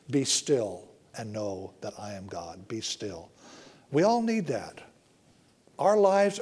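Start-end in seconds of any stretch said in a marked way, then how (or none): 0.1-3.3 quiet. Acted. Quoting scripture on stillness.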